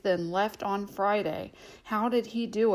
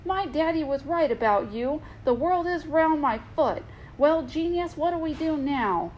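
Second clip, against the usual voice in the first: mocking princess, pitched up; scornful; 6 semitones higher than usual. Princess scorns the captain after the world proves flat. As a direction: sneer it at him. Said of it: "said scornfully".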